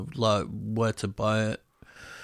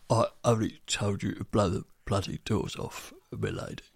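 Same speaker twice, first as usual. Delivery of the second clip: Michael Caine impression; 2 semitones lower, 4 dB quieter than usual. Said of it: "a little edge of Michael Caine about him".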